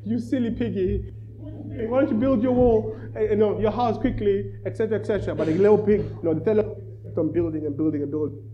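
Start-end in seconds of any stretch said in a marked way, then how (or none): 0.0-5.3 high, jeering laughter at a silly brother; playful taunt, pitched higher; mocking laugh. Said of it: "the two little pigs were laughing at him".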